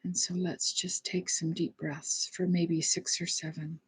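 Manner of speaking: soft, calm breathing guidance; guided meditation. Real, not acted. Leads deep breathing meditation.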